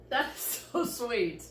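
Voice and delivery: delighted laughing gush. Real, not acted. Gushing over a sweet scene.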